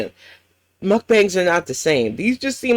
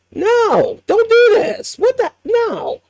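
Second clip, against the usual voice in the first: shocked shout; slower than usual. Real, not acted. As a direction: cry out in disbelief. Shocked reaction to clip.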